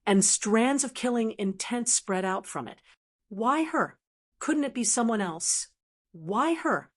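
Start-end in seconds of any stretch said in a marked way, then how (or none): 3.3-6.9 hysterical roar. Acted. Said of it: "roared in a slightly hysterical manner".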